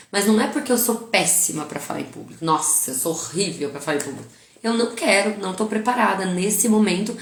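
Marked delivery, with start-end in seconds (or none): 2.4-4.3 self-pitying victim. Shown as a demonstration. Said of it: "comunicação pro meu cérebro de coitada, de vítima".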